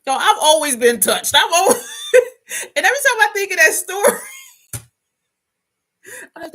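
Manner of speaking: loud, high laugh-filled confession; cracking up. Real, not acted. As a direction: gasp it out through laughter. Cracks up at her past self.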